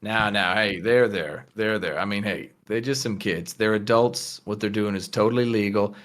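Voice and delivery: easygoing, placating reassurance; Lucas. Acted. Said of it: "Lucas sort of puts a hand on her shoulder and says".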